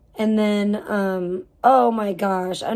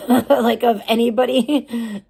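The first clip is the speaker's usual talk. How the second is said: laughing; 3 dB louder, slower than usual. Real, not acted. Laughs at own poverty.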